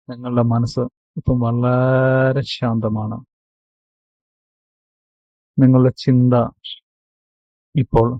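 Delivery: measured meditation guide with long pauses; guided meditation. Acted. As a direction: guide them into calm, phrase by phrase, stretching key words. (ധ്യാനത്തിലേക്ക് നയിക്കുന്ന ശാന്തമായ ശൈലി, ഇടവേളകളോടെ)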